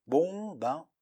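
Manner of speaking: a hint of an old crow croaking; mock croak of a grumpy old man. A narrator's reading. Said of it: "dit-il avec une voix de corbeau".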